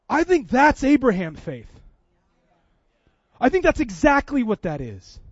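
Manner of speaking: high, loud, forceful declaration; emphatic preaching. Retold or imitated. Preacher declaring the gift an act of faith, emphatically. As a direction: proclaim it to the whole room.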